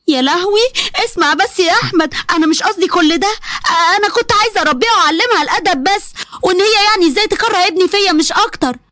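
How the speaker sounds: lightly voiced panicked mother; flustered mother-in-law. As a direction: scramble to justify yourself. Caught mother excusing herself.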